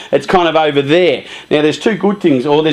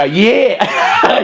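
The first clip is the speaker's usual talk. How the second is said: laughing yeah; 6 semitones higher than usual. Retold or imitated. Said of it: "and he'll go".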